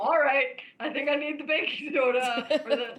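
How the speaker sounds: husband panicking at the burning grill; panicked. Retold or imitated. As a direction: blurt it out in a panic over the fire. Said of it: "There is panic".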